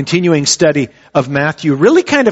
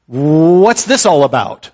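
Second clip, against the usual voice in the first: almost surprised; slower than usual. Shown as a demonstration. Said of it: "almost like".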